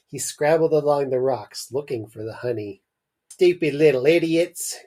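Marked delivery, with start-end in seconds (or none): 3.3-4.8 fading insult. A narrator's reading. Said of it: "came a fading voice".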